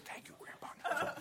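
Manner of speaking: put-on soft breathy whisper of a child; whispered thanks. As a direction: whisper it secretly to grandpa.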